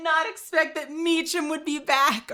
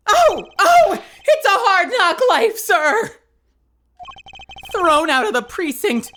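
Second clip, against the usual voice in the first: much higher, louder barking bailiff; Meekins voice; 9 semitones higher, 5 dB louder, slower than usual. Acted. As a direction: bark orders like an overeager rookie bailiff.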